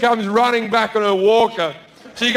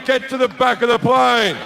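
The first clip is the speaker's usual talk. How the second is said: triumphant shout, a touch less; 3 semitones higher than usual. Retold or imitated. Retelling how he yelled at the man. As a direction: order him to the back again.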